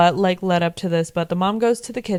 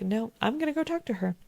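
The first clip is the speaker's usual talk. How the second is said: quiet determined quote; 3 semitones higher, 9 dB quieter, faster than usual. Retold or imitated. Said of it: "she was like".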